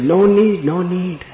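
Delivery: high, loud, repeated refusal; insistent old man. Retold or imitated.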